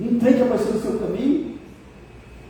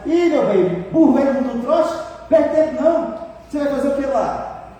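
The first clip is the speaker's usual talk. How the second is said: dismissive husband; 4 semitones higher than usual. Retold or imitated. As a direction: imitate a husband shooting down his wife's plans. Voices dismissive husband answering wife. (marido desdenhoso, imitado)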